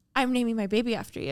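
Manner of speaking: hushed, whispered voice. Retelling how an older woman hugged her and whispered to her, whispering. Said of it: "she whispers".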